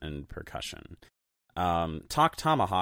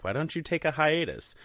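rising to a loud, high, goofy call of coyote; mock hype announcer; playful pun shout; 8 semitones higher, 7 dB louder, slower than usual. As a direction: yell the pun like a bad cartoon announcer. Punning on band name, teasing.

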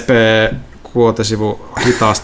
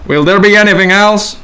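nervous clerk; 6 semitones higher than usual. Acted. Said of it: "Kuulosta pelokkaalta".

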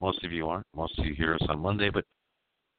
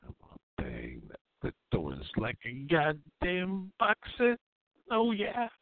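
mocking a listener; 11 semitones higher, slower than usual. Host mocking a listener's sexy voice, ending in a squeal. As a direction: crack up into a ridiculous squeal. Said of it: "You're like".

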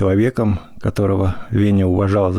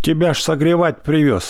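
embarrassed; 8 semitones higher than usual. A narrator's reading. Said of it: "смутился Веня".

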